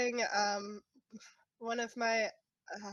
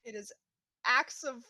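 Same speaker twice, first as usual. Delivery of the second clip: tearful protest; 4 semitones higher, 4 dB louder than usual. Acted. Tearful protest over money.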